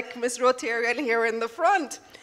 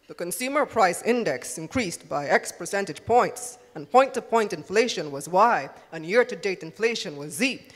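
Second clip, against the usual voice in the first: newscaster voice; 3 semitones lower than usual. Shown as a demonstration. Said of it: "I'm put on my newscaster voice now".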